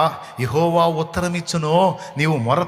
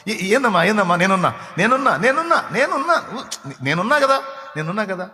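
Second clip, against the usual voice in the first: higher, soothing repeated reassurance; parent comforting; 4 semitones higher than usual. Retold or imitated. Parent hugs the crying daughter, soothing. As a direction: coo to a scared child. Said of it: "అన్న మాట".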